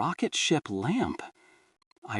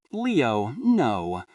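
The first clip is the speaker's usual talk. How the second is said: patient calm. Acted. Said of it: "her tone still patient, still calm".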